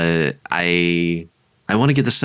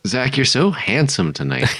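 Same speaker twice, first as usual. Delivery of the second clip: flirty banter; 5 semitones higher than usual. Pretend. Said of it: "Are you flirting with me?".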